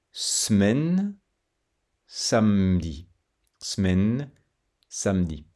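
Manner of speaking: "semaine" as smaine and "samedi" as samdi, E unsaid; "semaine" and "samedi" with silent E; dropped E. Shown as a demonstration. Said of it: "Pas besoin de prononcer le son E".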